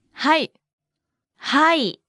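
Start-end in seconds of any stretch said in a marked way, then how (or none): 1.4-2.0 はい stretched out slowly; slow model. Shown as a demonstration. Teacher breaks down the word for yes, slowly. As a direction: draw out the vowels in はい.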